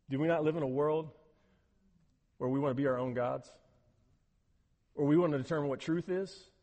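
ordinary talk

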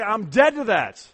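loud, slow and firm; said like you mean it. Shown as a demonstration. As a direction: declare it with full conviction. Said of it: "Say it like you mean it".

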